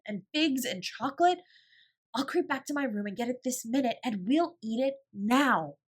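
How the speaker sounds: high, loud, eager list of treats; tumbling words. A narrator's reading. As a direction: pile the goodies up breathlessly. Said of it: "Her words began to tumble over each other".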